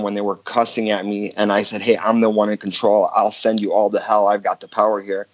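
usual speaking voice

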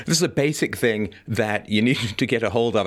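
real suppressed chuckle breaking in mid-sentence; laughing. Real, not acted. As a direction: try not to laugh at serious advice. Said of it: "I shouldn't laugh".

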